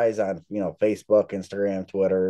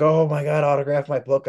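higher-pitched, lightly gushing fan; excited fan; 5 semitones higher than usual. Retold or imitated. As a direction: imitate an eager autograph seeker. Acting out eager fans.

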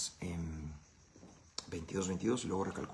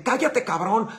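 put-on sudden high, loud yell at a kid; father's yell; 12 semitones higher, 9 dB louder, slower than usual. A dad yelling at his son, sudden loud shout. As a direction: snap it out like a fed-up dad. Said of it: "nada más este grito".

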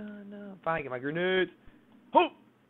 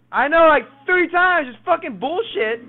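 angry; 11 semitones higher, 11 dB louder, slower than usual. Real, not acted. Complaining about deaths.

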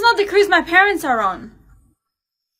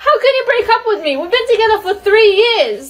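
higher-pitched heartbroken protest; distraught, voice raised in pitch; upset, tearful; 4 semitones higher, 3 dB louder than usual. Acted. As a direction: plead through the hurt of a breakup. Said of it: "why are you crying".

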